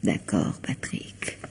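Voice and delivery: gently whispered. Acted. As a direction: give in sweetly, barely breathing it. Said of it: "Répète cela gentiment".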